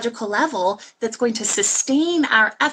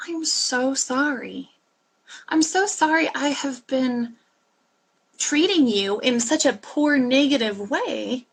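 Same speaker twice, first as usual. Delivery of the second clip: tender apology; 2 semitones higher than usual. Pretend.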